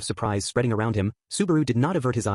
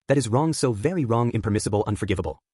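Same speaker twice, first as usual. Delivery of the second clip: cheer fading to ominous. Acted. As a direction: let the friendliness drain out by the last word. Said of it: "the cheer in Sirius's voice faded".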